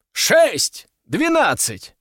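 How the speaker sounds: high, punchy bidding cries; called-out bids. A narrator's reading. Bidders raise each other for the crown, high calls. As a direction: fire bids over the hall. Rivals call out rising bids.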